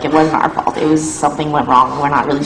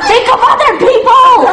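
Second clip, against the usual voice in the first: a much higher, louder mock yell from an old man; old man screaming; 4 dB louder than usual. Angry old man yelling at the band in the mall, mock high yell. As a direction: shriek it like a fed-up old shopper. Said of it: "an old man ran by screaming".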